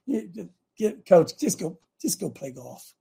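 lightly voiced tempter, coaxing and trailing off; a hint of a sly whisper in his ear; understated tempting voice talking him out of it; voice of the enemy. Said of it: "That's the enemy speaking".

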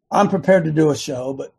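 hoarse, frog in the throat; a scratchy throat after a flight. Real, not acted. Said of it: "I've got a little frog in my throat here".

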